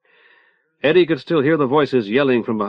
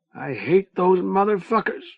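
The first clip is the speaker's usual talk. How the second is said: gasping; 7 semitones higher than usual. A narrator's reading. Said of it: "Manny gasped".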